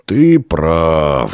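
mildly pensive agreement; thoughtful reply. A narrator's reading. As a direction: answer as if mulling it over. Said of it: "задумчиво ответил рыжий десятник".

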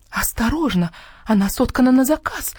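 the fox yelps a warning, a touch shrill; squealed. A narrator's reading. The fox warns the hen off her custom rug, squealing. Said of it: "взвизгнула лиса".

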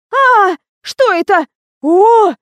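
very high, loud, slow shriek of fright; frightened squeal. Acted. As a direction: shriek at the sight of a mouse. Лиза видит мышь. (Лиза визжит, увидев мышь, — испуганно)

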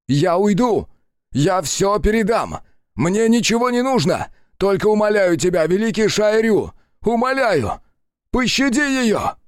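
high, loud desperate begging; sobbing plea. Acted. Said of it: "Он рыдал".

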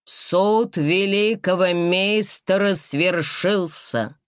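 slow, grand solemn proclamation. Acted. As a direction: proclaim it like a herald. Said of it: "торжественно провозгласил".

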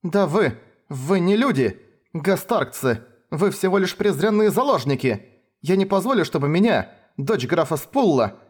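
high, furious tirade; outraged countess's daughter; indignant outburst. A narrator's reading. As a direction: put them in their place, seething. Noblewoman insults the hostages.

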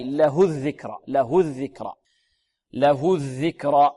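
له الذكرى with a short "hu" straight into the doubled dh; unlinked pronoun ha. Shown as a demonstration. Teacher gives an example of no linking, short hu. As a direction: keep له short, no long oo before الذكرى. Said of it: "لا توصل بواو لفظية".

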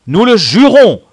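high, loud sworn declaration; solemn oath. A narrator's reading. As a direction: swear it aloud before the troop. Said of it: "serment solennel". (jurer solennellement à pleine voix)

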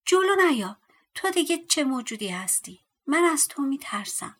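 high, loud scared yell; scared boy yells at the strange dwarf; frightened shout. Acted. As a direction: cry out in fear at the creature. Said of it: "فریاد زد".

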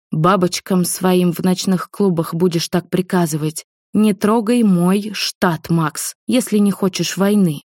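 slow, deliberate warning; slow and confident. Acted. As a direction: lay each word down slowly as a threat. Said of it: "сказала максимально медленно и уверенно".

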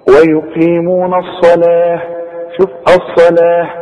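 الصلاة ending in an audible breathed h; final ة as h. Shown as a demonstration. Teacher demonstrates pausing, الصلاة closing on h. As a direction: stop on الصلاة with a long aa and h. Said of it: "التاء المربوطة دي تتحول الى ه".

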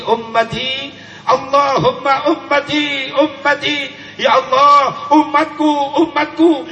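weeping prayer for his people; trembling plea. Retold or imitated. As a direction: beg with a quivering voice, building to a wail. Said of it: "Lalu bibir Rasul bergetar".

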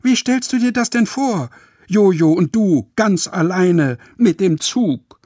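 viel höher und lauter, am Ende langsamer; vorwurfsvoll böse. Acted. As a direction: Opa aufgebracht zur Rede stellen. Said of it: "schaut Opa ganz böse an". (Mama schimpft Opa vorwurfsvoll aus)

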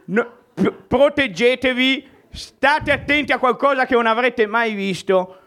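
showman introducing an act; announcer. Acted. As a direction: build it up to a big name. Host introduces the first act. (annuncio da presentatore)

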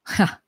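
brief gloating "ha"; short elated laugh. A narrator's reading. Black-robed youth delighted with the herb, short elated laugh. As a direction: let out one short, pleased laugh. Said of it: "biểu lộ ra vẻ cuồng hỉ".

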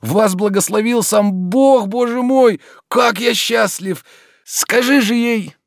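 high, slow, holding back joy; barely contain the delight; a friend hears happy news, high and slow with held-back joy; restrained rapture. A narrator's reading. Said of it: "сдержав восторг".

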